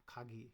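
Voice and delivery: খাগি with a breathy kh; aspirated kha. Shown as a demonstration. Teacher shows Japanese কা as aspirated খা. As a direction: push air on খা in খাগি. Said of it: "কা উচ্চারণ করলে খা".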